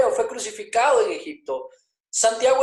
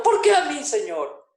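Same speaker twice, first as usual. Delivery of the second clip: mock wailing; 5 semitones higher than usual. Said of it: "Muchos estuviéramos en Patmos llorando".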